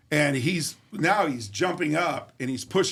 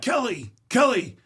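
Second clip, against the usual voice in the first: high calling yell, louder on the second Kelly; yelling for wife; 8 semitones higher, 3 dB louder than usual. Retold or imitated. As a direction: call her from across the house. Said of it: "So I start yelling at her".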